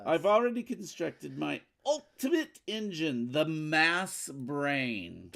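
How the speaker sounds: gloating villain, slowing on the mass brain; telenovela villain. Acted. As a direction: savor the boast like a soap villain. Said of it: "She just sounded like a telenovela villain".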